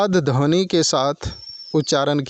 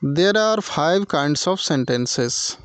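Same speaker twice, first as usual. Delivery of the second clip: slow dictation; much slower than usual. Shown as a demonstration. Teacher dictating slowly.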